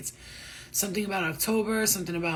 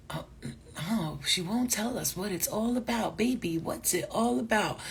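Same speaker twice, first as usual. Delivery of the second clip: imitated onlooker; 2 semitones higher than usual. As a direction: coo it like a curious fan. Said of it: "You're like".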